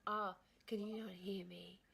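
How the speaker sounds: voiceless whispered remark. Real, not acted. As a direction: keep it to a whisper. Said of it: "I was just whispering".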